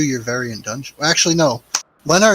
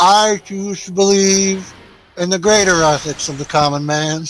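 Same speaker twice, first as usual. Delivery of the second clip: mock grandiose proclamation; 5 semitones higher, 5 dB louder than usual.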